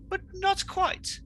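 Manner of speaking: high, slow, drawn-out gloating; sly villain aside. Acted. Villain gloating over his rival waffles, slow and high. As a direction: savour each word like a cartoon villain.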